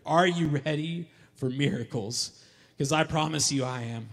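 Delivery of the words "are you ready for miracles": asked again, louder and fuller. Acted. Preacher asking congregation again, louder. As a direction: ask again so they hear. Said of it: "I don't think you heard me".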